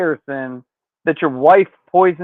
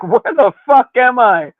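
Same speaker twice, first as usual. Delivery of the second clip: bewildered outburst; 4 semitones higher than usual. Retold or imitated. Acts out Dean snapping out, bewildered.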